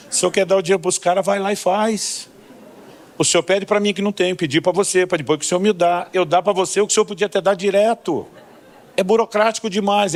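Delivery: bem mais agudo, reclamando com Deus; discussão exasperada. Retold or imitated. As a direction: reclame da burocracia como quem perde a paciência. Pastor argues with God, exasperated. (pastor discutindo com Deus, exasperado)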